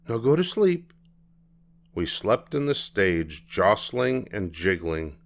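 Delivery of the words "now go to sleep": high, cheery bedtime order; bright, cheerful. A narrator's reading. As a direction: send a child to sleep brightly. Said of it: "Mama said brightly".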